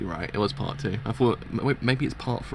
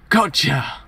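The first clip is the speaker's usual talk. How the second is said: loud acted crow of triumph; spring the trick with a shout; louder gloating exclamation; triumphant gotcha; 3 semitones higher, 6 dB louder than usual.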